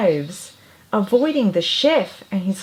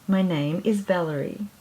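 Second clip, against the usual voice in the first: happy bird voice; 4 dB quieter than usual. Acted. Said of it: "she said happily".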